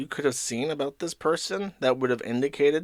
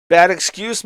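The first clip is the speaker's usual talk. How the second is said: mocking echo; 6 semitones higher, 8 dB louder than usual. Real, not acted.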